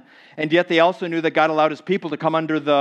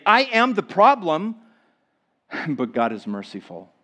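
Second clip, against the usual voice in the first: hopeful confession. Retold or imitated. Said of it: "They're able to say".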